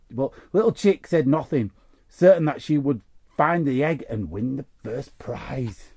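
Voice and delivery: lively read-aloud storytelling; story reading. Acted. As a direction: read it like a bedtime story to kids. Reads a children's story card.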